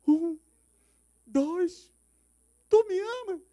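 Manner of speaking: high loud counting; shouted countdown. Retold or imitated. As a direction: count down to the jump, yelling. Countdown at roof edge.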